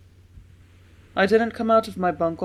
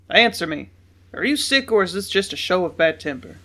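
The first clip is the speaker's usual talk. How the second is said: stern demand; 6 dB louder than usual. A narrator's reading. Father demands an answer.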